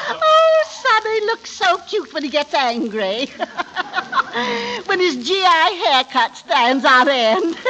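high giggling between the words; laughing fit. Acted. Mother to Sonny, tittering with amusement, laughing. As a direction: cackle with delight at his temper.

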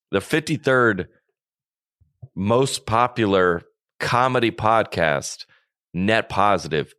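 slow, drawn-out announcement; announcer voice. Acted. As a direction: announce it slowly like an awards host. Mock announcement of chart ranking.

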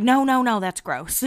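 imitated embarrassed denial; awkward mock protest. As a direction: fend it off, then sink into distaste. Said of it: "an awkward moment where you're like".

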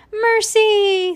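high, loud, drawn-out call. A narrator's reading. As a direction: sing out the name to summon her. Stella calls out to the pig.

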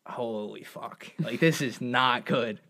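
soft, slow, sinking fear; quiet slow low dread. Retold or imitated. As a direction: let the panic creep in. Dread of not making it.

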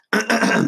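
clearing a hoarse throat. Real, not acted. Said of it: "sorry about the frog in my throat".

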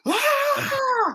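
sustained high-pitched scream; wild yell. Retold or imitated. Drummer showing how wild he was up there, high wild yell. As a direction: imitate letting loose with a piercing "ah". Acting out his wild playing onstage.

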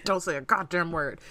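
tense command forced through the teeth; through clenched teeth. Retold or imitated. Boy hiding with girl from demons, through clenched teeth. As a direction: order silence with the jaw locked. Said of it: "talking through his teeth".

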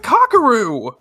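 high, loud cry of the name; acted alarmed shout. Hime finding Kakeru passed out, acted alarmed shout. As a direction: shout out in dramatized shock.

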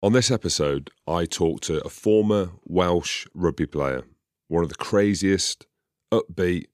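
measured host intro with deliberate pauses; scripted episode intro read; podcast introduction. Acted. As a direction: introduce the guest in spaced, presented phrases.

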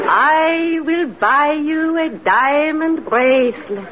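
hypnotic command. Acted. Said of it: "Now repeat after me".

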